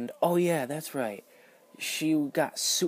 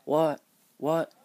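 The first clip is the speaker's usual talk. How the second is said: outraged disbelief; 4 semitones higher, 4 dB louder than usual. Real, not acted. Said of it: "I was so mad".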